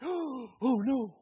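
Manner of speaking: slow, drawn-out dismay; a lightly voiced pastor sighing in sympathy; gentle, slowed pity from the pastor; sympathetic pastor. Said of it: "And he's like".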